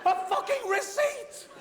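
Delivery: laughing through the punchline; slow, amused disbelief; spluttering with laughter. Real, not acted. Punchline on his own folly.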